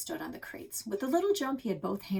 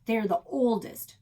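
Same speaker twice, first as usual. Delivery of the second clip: yell; 5 semitones higher, 6 dB louder than usual. A narrator's reading. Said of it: "I yelled".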